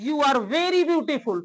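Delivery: slow, deliberate, very stressed; slow example sentence. Shown as a demonstration. Teacher models the contrasting sentence slowly. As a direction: lay it out slowly for the class. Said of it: "अब इसमें क्या अंतर है?".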